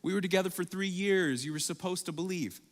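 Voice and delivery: a hint of a weary guilt trip; eye-rolling exasperation. Imagined Jesus mildly mocking Thomas with exasperation. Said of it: "roll his eyes at Thomas".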